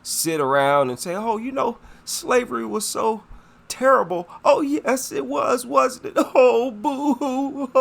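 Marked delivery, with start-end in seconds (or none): 1.2-7.7 high, sing-song mocking whine; hammed-up boo-hoo sobbing parody; mock lament. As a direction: parody her fake sorrow with a high, whiny voice. Mocking a white woman's lament.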